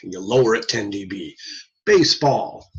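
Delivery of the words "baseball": lightly acted tester presenting a test word; tester prompting. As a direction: offer the word for someone to repeat. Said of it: "and they'll say".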